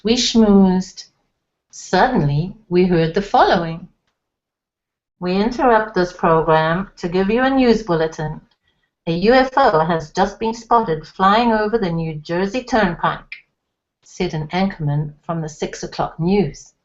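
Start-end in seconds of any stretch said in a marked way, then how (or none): 5.2-16.7 a lightly voiced anchorman reading the bulletin; mild anchorman tone breaking in on TV; news bulletin. A narrator's reading. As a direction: read it like the six o'clock news, lightly.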